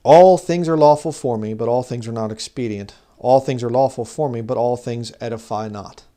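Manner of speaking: preacher's declamatory Bible reading; scripture reading. Acted. Reads scripture aloud to the congregation.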